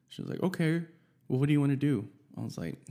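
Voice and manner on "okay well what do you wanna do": imitating girlfriend, higher and louder; lightly put-on eager girlfriend; girlfriend's voice. Boyfriend retells what girlfriend asked, higher girlfriend voice.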